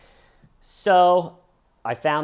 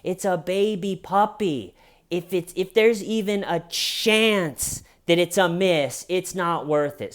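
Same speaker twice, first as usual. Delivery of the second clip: higher, stern telling-off; scolding; 8 semitones higher, 4 dB louder than usual. Retold or imitated. Scolding the dog owner about the puppy, high stern voice. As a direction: scold him like a careless kid. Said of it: "he took the scolding".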